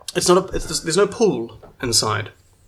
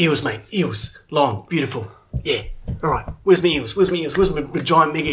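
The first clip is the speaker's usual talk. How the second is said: put-on childlike glee. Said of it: "like a little happy child looking around".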